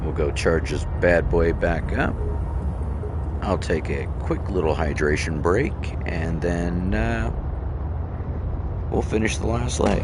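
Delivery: holding back hiccups while talking; suppressing hiccups. Real, not acted. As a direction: talk through stifled hiccups. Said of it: "Sorry, I've got hiccups".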